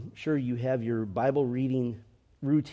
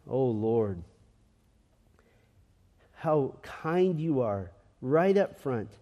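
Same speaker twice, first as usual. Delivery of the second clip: prayer. Real, not acted. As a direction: lead the congregation in unhurried, reverent prayer. Leads a closing prayer.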